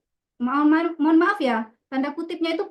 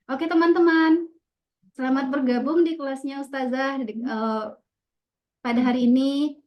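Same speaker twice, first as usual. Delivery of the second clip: classroom greeting demo. Shown as a demonstration. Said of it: "Kita menyampaikannya aturan kayak gini".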